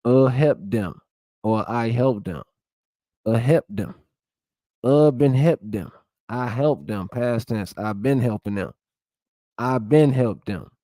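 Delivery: Gullah Geechee creole sentences, lightly voiced; reading Gullah examples. Shown as a demonstration. Vlogger reads Gullah grammar examples to viewers, lightly accented. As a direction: sound out the Gullah verb forms, a hint of Gullah accent. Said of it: "tense, and aspect system in Gullah".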